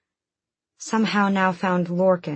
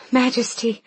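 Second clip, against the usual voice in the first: stammered; 7 semitones higher than usual. Acted. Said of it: "she stammered".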